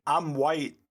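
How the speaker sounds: a hint of the white-guy voice, amused. Cohost explains his character to a laughing friend, mock white voice. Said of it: "That is my".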